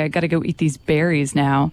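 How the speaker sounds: talking like a chipmunk with puffed cheeks. Acted. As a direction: chipmunk voice, cheeks full of berries. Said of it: "that's my chipmunk impression".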